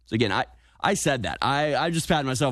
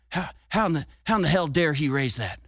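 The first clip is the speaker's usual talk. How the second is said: quoted outburst; 5 semitones higher than usual. Retold or imitated. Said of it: "Biden told reporters".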